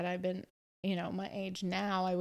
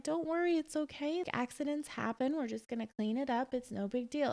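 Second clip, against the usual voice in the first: soothing reassurance; 6 semitones higher than usual. Retold or imitated. Comforting a crying child.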